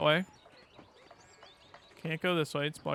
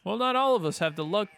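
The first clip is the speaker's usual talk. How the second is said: loud, raised-pitch mock Italian; poor Italian accent; 4 semitones higher, 6 dB louder than usual. Player voicing a character's retort, poor Italian accent. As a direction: attempt a bad Italian accent. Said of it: "try to do a poor Italian accent".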